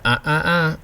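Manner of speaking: "Ah, ah, ah" as a no-no wag; finger-wag uh-uh sound. Shown as a demonstration. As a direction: close and open the throat through "Ah, ah, ah". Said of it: "you can feel your throat closing and opening".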